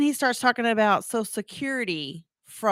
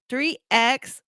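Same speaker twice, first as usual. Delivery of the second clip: caller repeating dictation; 4 semitones higher than usual. Retold or imitated. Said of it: "And he'd go".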